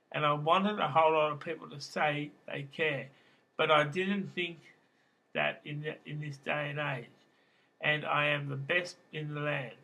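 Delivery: poem reading. Acted. Poet reads about being an idiot in the nineties, reciting. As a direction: declaim it in short, paced phrases.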